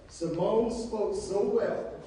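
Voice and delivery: slow, warmly southern presidential impression; Bill Clinton's southern voice. A president praising young Simone, slow Southern accent. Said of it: "in his southern voice".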